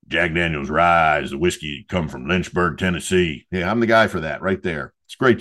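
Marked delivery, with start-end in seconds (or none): 0.1-3.5 a lightly deepened mock ad-announcer read; deep whiskey ad voice. Podcast host pitching himself as Jack Daniel's ad guy, mock deep voice. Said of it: "in the deep voice, in the rye whiskey voice".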